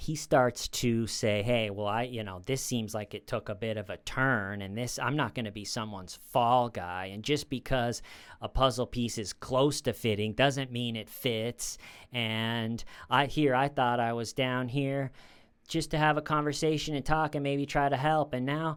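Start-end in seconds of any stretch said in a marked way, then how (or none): none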